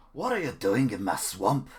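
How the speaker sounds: slow, loud ogre outburst; Shrek. Acted. Streamer repeating the swamp line, loud Shrek impression. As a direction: drag out the words in a booming Scottish ogre voice. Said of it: "Do Shrek".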